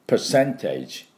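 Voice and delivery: percentage said slowly with a sharp tch ending; slow percentage, final tage like a sizzle; careful slow demo; slow model percentage. Shown as a demonstration. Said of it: "こんな音になります".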